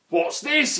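high, puzzled question; surprised troll. A narrator's reading. Grunt asks about his tickly curling lips, high and puzzled. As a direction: wonder at the strange feeling. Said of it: "he said".

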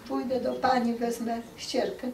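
a hint of a small child; child answering. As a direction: answer like an obliging pupil.

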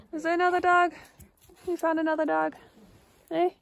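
high, loud excited pet voice; talking to the dog. Real, not acted. Owner asking her dog about the other dog, high excited pet talk. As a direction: rev the dog up, high and bright.

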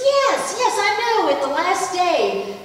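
high, loud insistent yes; emphatic assent. Retold or imitated. Martha answering Jesus about her brother, emphatic assent. Martha's impatient reply, acted out.

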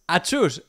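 a quick playful fake sneeze, "achus"; mock sneeze. Reading her chat reply to the scammer, mock sneeze. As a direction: sneeze it out lightly, half in jest. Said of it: "he estornudado escribiéndolo".

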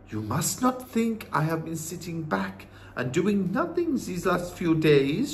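put-on measured old-woman voice; knowing, composed grandmother; wise Norwegian grandmother. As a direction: answer firmly as the grandmother. Grandmother answers boy.

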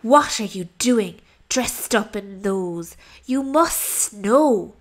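lightly voiced hissing snake; scowling snake. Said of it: "with a scowl and a hiss".

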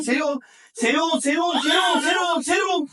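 high shrieking cheer; mother shouting at her son to hurry; excited shouting. Real, not acted. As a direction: push him hard with a high yell. Shouting encouragement.

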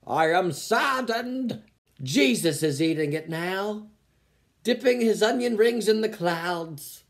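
a hint of a grave eulogy; mock eulogy. Reading a commenter's post like a eulogy at a funeral. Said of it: "like you're reading a eulogy at a funeral".

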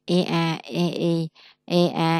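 phân biệt âm y dài; long ee sound. Shown as a demonstration. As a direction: draw out the long ee. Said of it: "E E là y dài".

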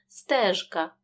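ж in «Стежка» kept voiced before к; clear voiced consonant. Shown as a demonstration. Teacher models the word for pupils, clearly voiced. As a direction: say «Стежка» with zh, not sh. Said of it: "вимовляємо чітко".

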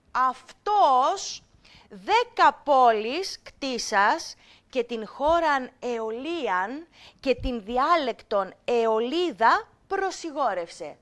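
put-on measured, slightly slow recitation of the old Greek; teacher reciting a passage for students; reading ancient text. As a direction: read it out like a classroom text. Reads ancient text to class.

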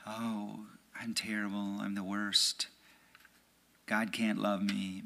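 a hint of the nagging inner voice; voices of the enemies. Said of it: "These are the voices of the enemies".

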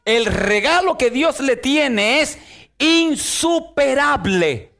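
slow then rising fervent preacher's cry; preaching at full force. Acted. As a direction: drive the promise home to the congregation. Preaching climax.

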